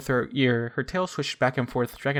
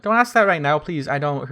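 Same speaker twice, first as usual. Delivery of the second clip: desperate plea; 3 semitones higher, 5 dB louder than usual. Acted. Pleading, overwhelmed by urge.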